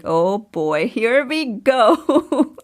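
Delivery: slow, drawn-out weary sigh of a line; resigned husband. Retold or imitated. Husband bracing for his wife's big idea, drawn-out and weary. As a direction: drag out here we go like a tired husband. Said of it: "He's like".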